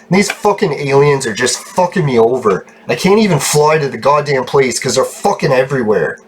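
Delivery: real frustrated ranting; exasperated complaint; really pissed. Real, not acted. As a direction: gripe with irritation, punching the swearwords. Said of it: "I'm just getting really pissed".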